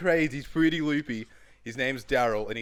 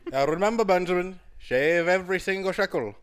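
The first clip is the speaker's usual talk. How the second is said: put-on raised, loud old Jewish elder; old Jewish man voice; 7 semitones higher, 5 dB louder than usual. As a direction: lecture like an old Jewish uncle. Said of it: "this Jewish, old man Jewish voice".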